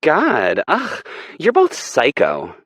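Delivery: high, loud, slow exasperated yell; disgusted shout. Acted. Aspen storms off from the couple, shouting in disgust. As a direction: throw it at them as you leave. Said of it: "Aspen shouts".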